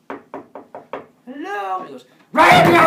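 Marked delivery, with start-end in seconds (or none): 1.3-1.8 high, loud sing-song hello; high calling hello. Acted. Pandora knocking on box. 2.3-2.8 high, loud jump-scare shout; sudden shout. Acted. Thing in box shouts back.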